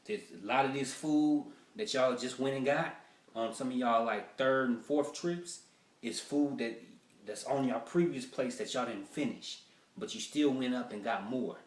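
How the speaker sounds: stern owner lecturing diners; buffet owner scolding. Acted.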